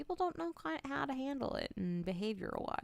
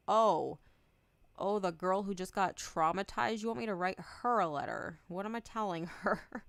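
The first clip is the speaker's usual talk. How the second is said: incredulous retort; 4 dB louder than usual. Retold or imitated. Retorting to therapist's request.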